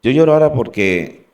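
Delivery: real tears rising as he speaks; choked with emotion. Real, not acted. Telling how God saved him, voice breaking with tears. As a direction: voice catching, moved by grace. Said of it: "Perdona que me emocione".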